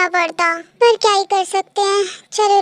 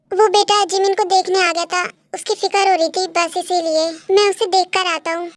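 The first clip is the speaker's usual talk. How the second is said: lightly voiced dad, slightly lowered; concerned father; 4 semitones lower than usual. Dad explaining he came to check on Jimin, mildly concerned.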